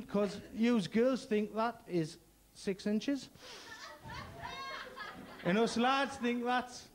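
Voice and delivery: slow, drawn-out delivery; slow punchline. Acted. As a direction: let each word hang. Punchline slowed right down.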